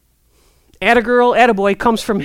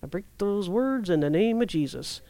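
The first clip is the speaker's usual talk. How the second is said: quiet prayer demo; 4 semitones lower, 9 dB quieter than usual. Shown as a demonstration. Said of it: "this is what I do".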